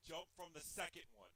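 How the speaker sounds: low-key note to self; quiet self-instruction. Real, not acted. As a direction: say it softly, working out the move. Talking self through move.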